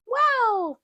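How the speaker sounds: high, delighted little piglet; high excited child wow; Peppa. Acted. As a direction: gasp it out like an amazed child. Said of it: "Peppa says".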